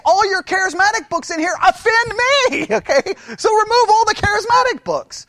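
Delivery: high, loud, hammed-up indignation; exaggerated high-pitched demand; mock outraged complaint. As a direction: protest loudly like an offended customer.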